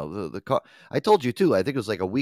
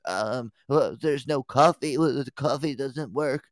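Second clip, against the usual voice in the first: mock customer voice; 4 semitones higher, slower than usual. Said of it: "people still coming up to me".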